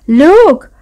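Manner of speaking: high, loud cry of wonder; gasped exclamation. A narrator's reading. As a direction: exclaim as a little mouse amazed by the sight. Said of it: "gasped Little Gray Mouse".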